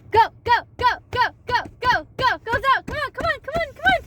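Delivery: loud, high urgent cheer; excited cheering. Real, not acted. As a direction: cheer her to the finish. Mother cheering daughter drinking.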